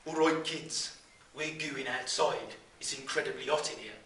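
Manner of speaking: broad Brummie teacher addressing the class; Brummie accent. Acted. Teacher tells hot classroom they're going outside, in a Brummie accent. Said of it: "in his best Brummie accent".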